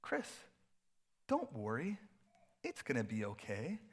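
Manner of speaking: gently reassuring imitation, with pauses; soft and sweet. Colleague reassuring a stressed pastor, soft and sweet. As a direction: soothe lightly, lifting the ends. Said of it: "It's, like, soft and sweet".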